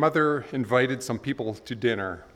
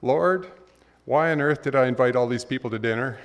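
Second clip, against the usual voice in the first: put-on sincere little girl. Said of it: "with sincerity in her voice said".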